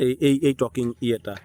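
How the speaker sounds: ordinary talk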